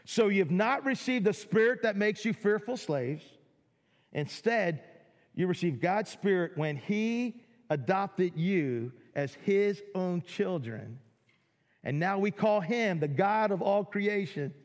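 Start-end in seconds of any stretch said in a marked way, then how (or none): 0.1-11.0 drawn-out and emphatic, letting each word sink in; slower second reading for weight; slow, deliberate reread. Shown as a demonstration. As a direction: read it again slowly so it lands. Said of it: "rereads the verse slowly".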